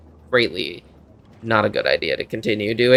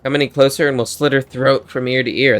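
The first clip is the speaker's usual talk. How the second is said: lightly put-on country accent; a rough go at a Texan bandit; attempted Texas accent. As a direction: bandit threat with a hint of country twang. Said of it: "Trying to do Texas or, like, country".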